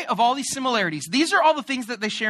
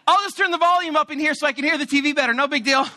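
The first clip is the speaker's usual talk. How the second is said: mock passive-aggressive; 7 semitones higher, 4 dB louder, faster than usual. Pointed reply while cleaning.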